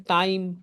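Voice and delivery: "टाइम" said clearly with a gliding ai; pronunciation demo. Shown as a demonstration. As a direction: model "टाइम" as a diphthong. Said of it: "इसमें टाइम को हम कैसे पढ़ते हैं?". ("टाइम" का उच्चारण साफ़ बोलकर)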